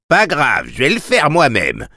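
high, dazed and eager maid; drugged and impatient. Acted. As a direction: sound drugged but desperate to act. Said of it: "comme droguée, malade d'impatience".

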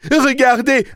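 very high, loud outburst; angry yell. A narrator's reading. Boy pounding the taxi hood, furious yelling. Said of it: "hurla le garçon".

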